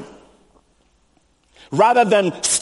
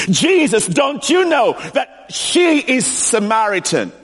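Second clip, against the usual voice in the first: protesting disciple; 4 semitones higher than usual. Retold or imitated.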